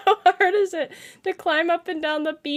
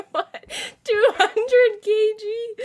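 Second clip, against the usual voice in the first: laughing; 4 semitones higher, slower than usual. Real, not acted. Streamer laughing at chat joke.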